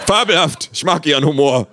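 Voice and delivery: loud, high, laughing praise. A narrator's reading. Visitor praising the artist's humour, loud laughter. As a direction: crack up while praising. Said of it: "sagt er lachend".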